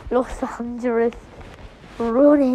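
a slip into a light French accent on Ronnie. Real, not acted. Gamer reading ship names, light French accent. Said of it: "Why did I say that in a French accent?".

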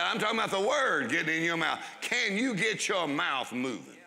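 preacher retrying the line, leaning hard on "you"; stress on you. Shown as a demonstration. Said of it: "Let's try that again".

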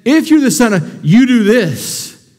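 slow, lightly voiced tempter; tempter's voice. Preacher voicing the devil tempting a hungry Jesus, slow and sly. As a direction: drawl it out like a sly tempter, mild.

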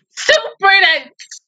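high, slow, tearful cry of super dense; crying wail. Real, not acted. Viewer crying out at a sad anime scene, tearful wail. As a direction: wail it out through tears.

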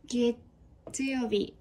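slow teaching read. Shown as a demonstration. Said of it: "teaching the day names".

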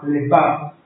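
Lebab with the accent on its A; stress on the A. Shown as a demonstration. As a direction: say Lebab, leaning on the final syllable's A. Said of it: "y acento en la, en la A".

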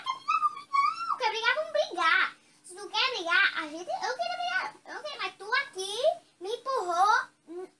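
put-on drunk and picking a fight. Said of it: "o bêbado que bebe e briga".

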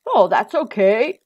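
giant's forgiving reassurance, fairly loud; good-natured storybook giant; kindly giant. A narrator's reading. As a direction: let him off kindly, in a giant's voice. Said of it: "said the giant kindly".

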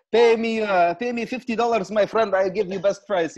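loud, high mock market-seller patter; playful hawker pitch. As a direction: haggle jokingly like a street vendor.

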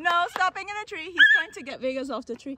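normal talking voice

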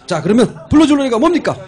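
high, loud showman call; loud MC announcement. Acted. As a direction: hype up the crowd like an emcee. MC hyping up the performance.

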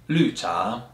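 "lu cha" slowly, "lu" falling, "cha" rising; teacher's careful "lu cha" with a falling first syllable; fourth tone on lu. Shown as a demonstration. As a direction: drop the pitch through "lu" in "lu cha". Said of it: "fourth tone".

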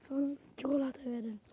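quick whispered aside; quick hushed aside. Real, not acted. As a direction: rush it in a whisper.

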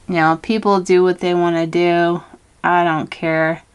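talking while doing lip liner; while putting on lipstick. Real, not acted. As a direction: speak while lining the lips. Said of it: "I'm trying to talk and do lip liner".

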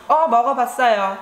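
a quick, casual "Oh, 먹어봤어요" tossed off with a hint of sass; know-it-all attitude. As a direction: brush him off like you know it all. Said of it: "with the attitude".

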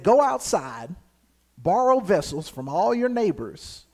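measured reading with drawn-out key phrases; scripture reading. A narrator's reading. Preacher reads scripture to the congregation, measured scripture reading. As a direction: read it deliberately, pausing between phrases.

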